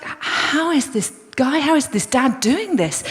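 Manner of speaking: mock amazement, drawn-out start; blown away. Woman watching the calm dad, amazed. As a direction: marvel in mild disbelief. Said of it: "this woman is blown away".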